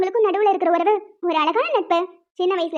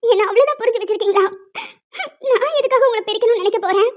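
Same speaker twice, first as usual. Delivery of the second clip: hurt, tearful protest. Acted. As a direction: protest through tears, catching your breath. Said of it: "ஏய், இப்ப எதுக்கு அழுகுற?". (அழுதுகொண்டே கேட்பது)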